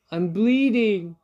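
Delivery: slow, high, loud yelp. Acted. Fox waking after the extraction, high loud yelp. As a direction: yelp as you wake. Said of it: "the fox yelped".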